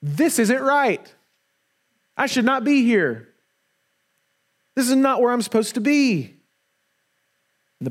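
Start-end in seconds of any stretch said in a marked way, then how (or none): 0.0-6.2 much higher, pleading cry of a son in the pig trough; high and desperate, the son waking up to where he is; the prodigal son cries out, high and anguished; prodigal son's realization. Acted. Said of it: "the prodigal son eating slop from the pig trough going".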